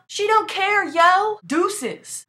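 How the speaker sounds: high, loud mocking repeat; sassy echo. Real, not acted. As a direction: throw her line back with sass. Echoing Marie's outburst.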